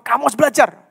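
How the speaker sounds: teguran tegas, nada agak tinggi; teguran teman. Acted. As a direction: menegur seperti teman yang peduli. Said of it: "terus temanmu tegur kamu". (menegur dengan nada lebih tinggi)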